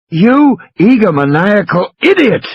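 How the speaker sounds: in a fury. A narrator's reading. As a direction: spit out the insult in anger. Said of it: "Malcolm said in a fury".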